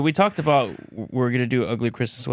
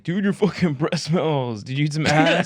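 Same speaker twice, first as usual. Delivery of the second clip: higher, slow mock call-out; hammed-up public shaming; putting someone on blast; 5 semitones higher, slower than usual. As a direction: call them out for everyone to hear. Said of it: "put you on blast".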